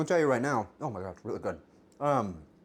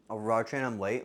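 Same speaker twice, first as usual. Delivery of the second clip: usual speaking voice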